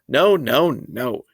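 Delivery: hammed-up toddler hollering refusal; child hollering. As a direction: holler it like a tantrum. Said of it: "he hollered".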